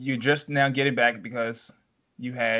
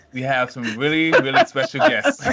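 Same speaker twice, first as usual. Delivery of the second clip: trying not to laugh; 7 dB louder than usual. Real, not acted. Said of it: "I'm trying to be professional".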